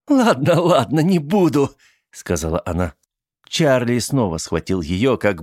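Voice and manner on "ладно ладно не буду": sneering. Acted. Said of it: "тем самым гаденьким смешком".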